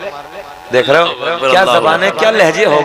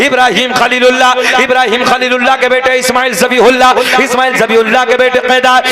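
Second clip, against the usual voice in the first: rhythmic chanted lineage, held at full preaching force; preaching recitation; 6 semitones higher, 4 dB louder than usual. Acted. Preacher reciting the lineage to the gathering, full preaching. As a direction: intone each name to the crowd like a sermon.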